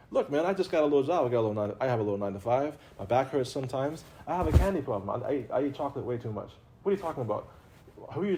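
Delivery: quick, offhand objecting voice of an ordinary worker; lightly voiced everyday guy. Teacher mimics a skeptical listener, fast and casual. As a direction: rattle off excuses like a tired nine-to-five guy.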